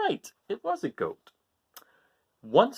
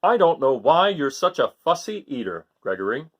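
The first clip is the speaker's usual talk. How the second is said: louder mildly scolding father; Father Goat scolding; 6 dB louder than usual. Acted. Father scolding his fussy son, mild louder scolding. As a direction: chide him like a puzzled dad. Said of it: "Father scolding picky son".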